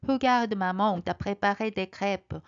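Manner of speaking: little bear showing off the crepes; proud. Acted. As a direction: show off to mom proudly. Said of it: "의기양양한 표정으로".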